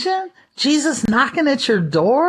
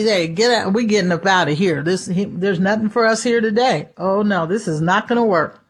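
Satan to his demon; 5 semitones lower than usual. Retold or imitated. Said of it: "he told his little demon buddy".

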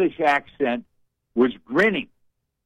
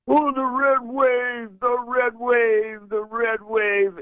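mocking hype; 7 semitones higher, slower than usual. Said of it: "remember back a few years ago".

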